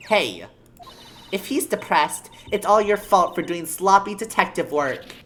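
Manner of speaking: loud, brash detective voice; gruff cop voice. Acted. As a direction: bark it like a clumsy cop.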